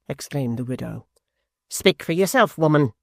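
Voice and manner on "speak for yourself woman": cold. A narrator's reading. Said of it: "said the man within the coach coldly".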